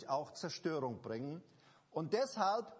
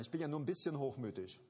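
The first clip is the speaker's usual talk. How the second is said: mock excuse; 5 semitones lower, faster than usual. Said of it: "manche sagen".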